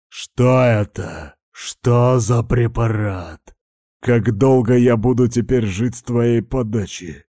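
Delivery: demanding answers, temper climbing; getting worked up. A narrator's reading. The narrator presses his companion, getting heated and demanding. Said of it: "заводился я".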